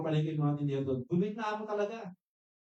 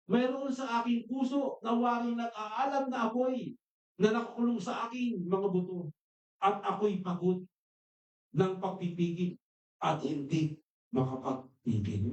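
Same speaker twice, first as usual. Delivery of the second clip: scripture reading; 3 semitones higher, slower than usual. Acted. Quotes Jeremiah in sermon.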